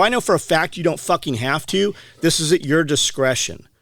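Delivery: heated, insistent retelling; retold angry retort. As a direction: replay arguing back at the clerk. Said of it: "You were so mad".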